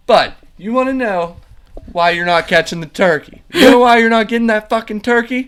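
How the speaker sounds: high, loud mocking rant at a coworker; imitated angry shout. Pirate coworker taunting the kid about the turkey, loud angry shout. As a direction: yell it like a furious hothead goading someone. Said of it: "he's always saying".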